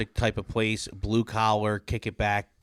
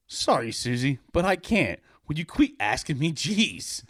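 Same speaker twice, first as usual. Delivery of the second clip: a lightly voiced irritated boy; a hint of an annoyed kid; annoyed Johnny; 5 semitones higher than usual. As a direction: brush her off, fed up. Johnny character voice.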